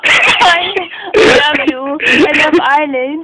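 tearful, laughter-choked declaration; laughing. Real, not acted. Shouting out to Ireland mid-giggle, laughing. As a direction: push it out through real laughter. Overcome by laughing fit on camera.

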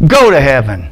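playful put-down with a falling tune; mock mean. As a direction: toss it out like a joking insult. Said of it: "That'd be like a mean saying".

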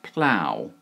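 plough drawn out, rhyming with cow; pronunciation demo. Shown as a demonstration. Teacher answers a viewer's question, plough modelled slowly to rhyme with cow. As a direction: say plough slowly and clearly, with an OW ending. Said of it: "how do we pronounce this word".

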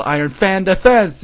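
high, loud attack call; anime-style battle shout; yelled. A narrator's reading. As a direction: yell the move name, drawn out. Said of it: "Tsukasa yelled".

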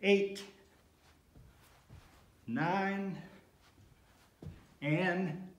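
counting reps mid push-up; strained counting through push-ups; doing push ups. Real, not acted. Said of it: "do a full set of ten".

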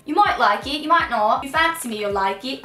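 put-on a half-hearted British accent on fancy; terrible British accent. To her viewers, a terrible British accent. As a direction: try a British accent and miss. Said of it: "That was a terrible accent".

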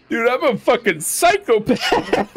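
slow words through laughter, high and loud; laughing. Real, not acted. Streamer cracking up at his own choice, laughing.

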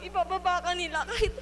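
pushing the hurt out through tears; crying. Real, not acted. Rising tearful outrage.

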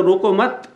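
روکو مت said as one unit, then a break; phrase break after مت. Shown as a demonstration. Preacher splitting an ambiguous phrase, break after مت. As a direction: keep روکو and مت together, pause after مت. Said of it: "اس کو ٹکڑا کر سکتا ہے".

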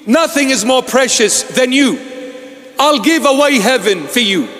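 lightly voiced Lord, pleading love; voicing the Lord. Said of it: "So the Lord says".

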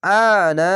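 আনা with long first "aa", short "na"; one-alif elongation. Shown as a demonstration. Teacher modelling for learners, আনা with long opening "aa". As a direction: stretch the opening vowel of আনা. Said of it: "এক আলিফ টেনে পড়বেন".

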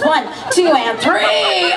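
calls out three with a laugh; shouted count. Acted. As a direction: punch the last number.

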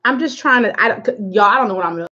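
stumbling over the words; stuttering. Real, not acted. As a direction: trip over the start of each phrase. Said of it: "That's why I'm over here stuttering".

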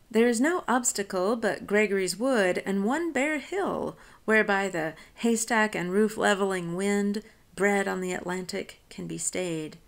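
measured recitation of the stanza; poem reading. Acted. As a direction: read it as verse, letting the lines carry. Teacher reads the poem aloud.

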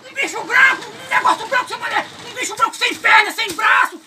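frightened report. Acted. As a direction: cry it out, stretching the end.

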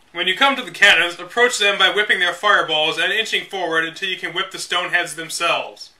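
measured, deliberate strategy-guide narration; guidebook read-aloud. Acted. Reading old game guide to viewers, deliberate. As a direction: read it like the official manual, step by step.

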